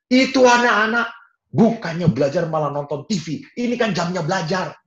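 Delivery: high, loud complaining dad; angry father. Retold or imitated. Father complains to mother about kids watching TV. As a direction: grumble at the kids to his wife.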